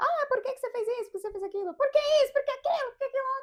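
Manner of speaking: shrill, very high-pitched, furious rapid shouting. Retelling how a man kept shouting questions at the speaker: retelling his shouting. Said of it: "Ele falava gritando".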